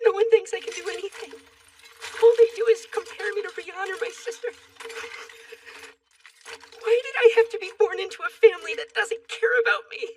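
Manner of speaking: upset lament. Acted. Lamenting a family that doesn't care, upset.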